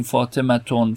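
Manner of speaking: فاطمتون ending in a clear -tun; tanvin -un ending. Shown as a demonstration. Teacher shows students a form not used, فاطمتون ending in -tun. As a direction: sound the final n after u in فاطمتون. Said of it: "ما نمیگیم".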